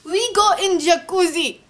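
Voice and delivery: lively mock Arab accent. Vlogger proposing jacuzzi time, mock Arab accent. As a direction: announce it in a put-on Arab accent. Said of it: "I should do my Arab accent".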